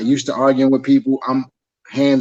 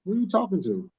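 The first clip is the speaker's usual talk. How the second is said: affronted husband; 6 semitones higher, 11 dB quieter, faster than usual. Retold or imitated. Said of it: "And I'm like".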